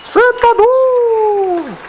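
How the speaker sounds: slow, high pet-talk drawl. Real, not acted. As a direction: stretch each word out to the dog. Teasing dog in baby voice.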